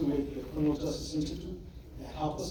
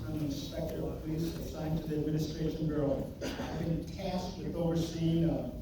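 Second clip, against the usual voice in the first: muffled. Real, not acted. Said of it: "you are muffled".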